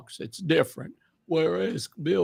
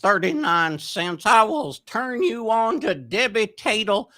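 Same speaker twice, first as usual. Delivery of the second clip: Mr. Haney voice; 5 semitones higher than usual. Retold or imitated. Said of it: "Green Acres".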